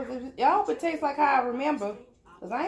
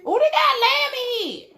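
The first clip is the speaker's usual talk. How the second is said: surprised; 12 semitones higher, 7 dB louder than usual. Real, not acted. Surprise at finding lamb inside.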